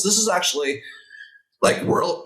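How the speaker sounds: husky catch in the throat; words snagging on a frog in the throat. Real, not acted. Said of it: "sorry, I got a frog in my throat".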